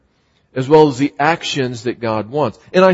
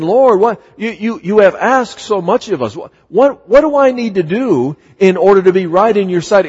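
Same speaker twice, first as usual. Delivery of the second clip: raised, pleading mock whine of the excuse-makers; sarcastic, higher-pitched mock complaint to God; sarcastic excuse-making; 4 semitones higher than usual. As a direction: play the people wheedling God for a way out. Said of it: "Micah is being a little bit sarcastic here".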